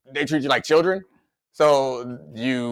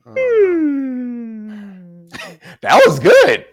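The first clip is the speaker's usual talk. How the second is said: laughing; 11 semitones higher, 6 dB louder, much slower than usual. Real, not acted. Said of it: "That felt real".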